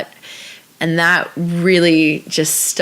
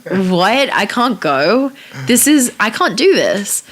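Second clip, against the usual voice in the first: drawn-out, mock-dismayed protest; retold dismay; much slower than usual. Actress retelling her reaction to reading the script, mock dismay.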